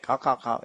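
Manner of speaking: light mock cawing; imitated rooster crow. Lecturer mimicking the rooster's call, light mock cawing. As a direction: mimic the bird's call, half-joking. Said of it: "like that, you know".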